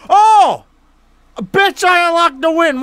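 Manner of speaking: loud, high surprised cry; real shout of surprise; excited shout. Real, not acted. Just won the game.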